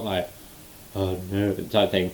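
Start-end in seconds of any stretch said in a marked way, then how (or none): 1.0-1.5 soft, stunned "oh no"; mild mock shock. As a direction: quietly act out shock, not full pain. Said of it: "just sort of like a shock".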